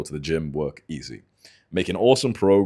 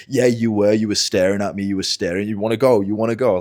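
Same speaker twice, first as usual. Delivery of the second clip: louder mock challenge, pushing for a fight; imitated aggressive confrontation; 3 semitones higher, 5 dB louder than usual. Stranger challenges man to a fight, imitated aggressive goading. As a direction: goad him like the angry gym guy. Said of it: "he confronts me".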